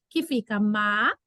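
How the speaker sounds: ma-ri-a split slowly into three syllables, pitch dropping; slow classroom syllable demo. Shown as a demonstration. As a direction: spell ma-ri-a out in slow, separate beats. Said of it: "dividi-la em sílaba corretamente".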